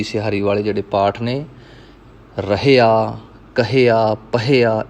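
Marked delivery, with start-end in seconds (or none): 2.4-4.8 ਰਹਿਆ, ਕਹਿਆ, ਪਹਿਆ each with an audible h before -ia; sounded h. Shown as a demonstration. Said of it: "ਇਸ ਤਰ੍ਹਾਂ ਜੇ ਹਾਹੇ ਨਾਲ ਹੈ". (ਰਹਿਆ, ਕਹਿਆ, ਪਹਿਆ ਵਿੱਚ ਹਾਹੇ ਦੀ ਆਵਾਜ਼ ਨਾਲ)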